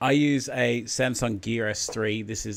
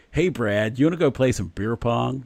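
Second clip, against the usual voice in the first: casual American buddy accent; 3 semitones higher, 3 dB louder than usual. Shown as a demonstration. Inviting Brad to play beer pong, American accent. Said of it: "like, American".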